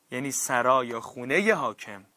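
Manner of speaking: ordinary talk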